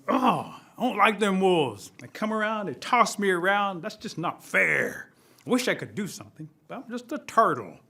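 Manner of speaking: acted sulky complaint, stretched key words; grumbling turtle. Turtle alone after the wolves leave, mildly sulky grumbling. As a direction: whine mildly about unfair treatment.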